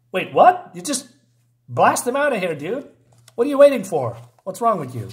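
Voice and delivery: sudden high, loud disbelief at the hero; Wait, what? thrown out in real surprise, then scolding; incredulous outburst. Real, not acted. Reacting to the comic's weak hero.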